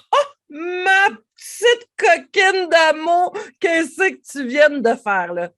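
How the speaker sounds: high, loud, slow teasing exclamation; hammed-up loving reproach; comic playful scolding. Shown as a demonstration. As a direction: scold yourself with a laugh in your voice. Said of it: "une intonation comique ou quelque chose de ludique".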